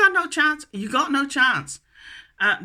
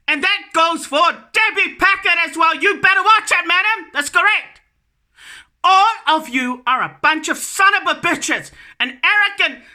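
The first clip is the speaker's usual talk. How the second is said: angry scolding; 3 semitones higher than usual. Real, not acted. Warning the ministers to watch it, angry and raised. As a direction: threaten them, voice climbing.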